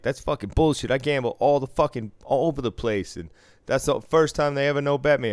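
hammed-up furious player protesting; imitating an outraged gambler.

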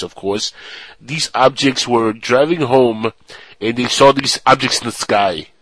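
news story in mock Austrian accent; lightly put-on Austrian accent. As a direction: read it out with a comic Austrian accent. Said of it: "smile on my face from your accent".

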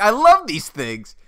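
high, slow fond dad voice; doting dad. Retold or imitated. Dad throwing potatoes on the table, high slow fond coo. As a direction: coo over the potatoes lovingly.

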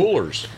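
coolers with a clear R before the final z; American R. Shown as a demonstration. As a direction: sound the R in coolers. Host repeats with American R.

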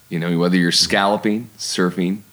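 scalloping with an upstate New York vowel; upstate New York accent. Real, not acted. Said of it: "my upstate New York accent just popped right in".

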